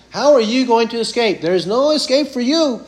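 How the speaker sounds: mock them that there's no way out; taunting. Jesus taunting the scribes and Pharisees, sneering. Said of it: "He's taunting them".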